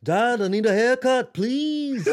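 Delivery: put-on high British kid voice with a Liverpool accent; mock Liverpool-accent son asking dad; impression of a famous band. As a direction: plead like a boy in a Liverpool accent. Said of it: "your Beatles impression".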